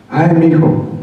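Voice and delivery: high, loud exasperated sigh of a mother; exasperated mom. Retold or imitated. Mother despairing over her son, high exasperated wail.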